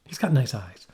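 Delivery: whispered aside. Real, not acted.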